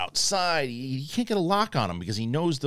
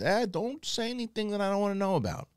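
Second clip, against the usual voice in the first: high, sly warning voice; mock shady informant; 11 semitones higher than usual. Informant warns Andor's friend, sly high voice. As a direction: voice the rat warning him off. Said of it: "he says".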